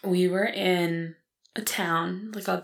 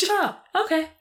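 put-on accepting child; 12 semitones higher than usual. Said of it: "she was like".

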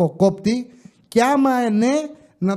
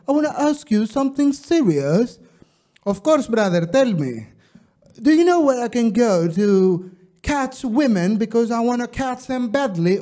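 put-on tourist's accented English; 3 semitones higher, 3 dB louder than usual. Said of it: "Θα το πω και με προφορά".

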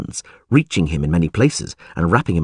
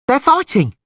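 very high urchin's cry; excited yell; 3 dB louder than usual. A narrator's reading. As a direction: yell the news out like a street kid. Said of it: "yelled an urchin".

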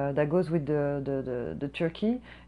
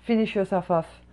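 loud fantasy jab; pretend taunt; 2 semitones higher, 8 dB louder, slower than usual. Server imagines taunting the customer in a parking lot, loud. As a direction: shove the words at her. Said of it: "Tell her".

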